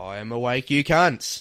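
booming, drawn-out zipper sound. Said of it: "it's a bit like this".

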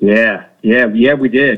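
unenthusiastic tone. Confirming they took up kayak fishing in the past year: unenthusiastic. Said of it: "you don't sound happy about that".

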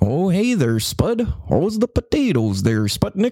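put-on Idaho regional voice. Mimicking how people from different states talk, put-on Idaho local voice. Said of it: "Or if you're from Idaho, you're like".

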